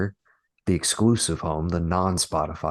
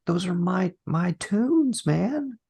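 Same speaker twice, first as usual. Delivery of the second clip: much higher, put-on whine; whiny high complaint; 13 semitones higher, much slower than usual. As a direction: whine it like a sulking kid. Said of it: "I was just like".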